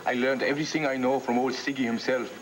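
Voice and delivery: a hammed-up, barely-there German accent; bad German accent. To his girlfriend, bragging about dreams, in a weak fake German accent. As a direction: put on a lousy German accent like old Siggy. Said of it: "That's the worst German accent I ever heard".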